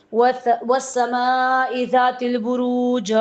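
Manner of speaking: slow recited Arabic verse, each syllable drawn out; slow reverent Quranic recitation. Shown as a demonstration. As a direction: intone وَالسَّمَاءِ ذَاتِ الْبُرُوجِ slowly like tilawat.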